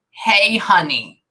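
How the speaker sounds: slow, drawn-out greeting from a woman; a long, lingering hello to a sweetheart; woman's voice greeting. Retold or imitated. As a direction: say it slowly, as the woman heard. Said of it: "I hear a woman's voice and it says".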